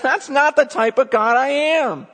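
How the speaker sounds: God swearing to his people, loud and high; God pleading. Retold or imitated. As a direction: speak as God, insisting passionately. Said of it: "He goes".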